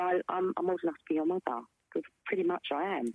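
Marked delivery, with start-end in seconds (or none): none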